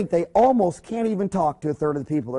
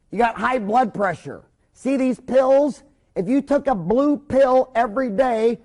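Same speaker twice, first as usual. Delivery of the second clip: slow, deliberate, spelled-out instructions; plain simple talk; 5 semitones higher, slower than usual. Shown as a demonstration. Doctor explaining pills to Grandpa, slow and simple. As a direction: lay it out slowly like to a child. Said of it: "I mean, talk English".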